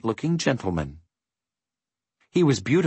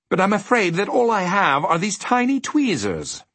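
polite gentleman voice; 9 semitones higher than usual. A narrator's reading.

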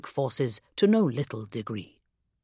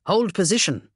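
firm command; 4 semitones higher, 4 dB louder than usual. Acted. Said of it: "I ordered".

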